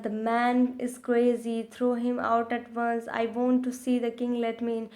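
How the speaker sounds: put-on very slow, careful English read-aloud for children; slow storybook reading. A narrator's reading. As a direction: read each word out slowly like a class reader.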